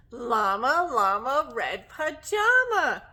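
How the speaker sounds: singsong title, punched word by word; storytime title announcement. Acted. Teacher presents the book to children, playful announcing. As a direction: announce the book with big, loud bounce.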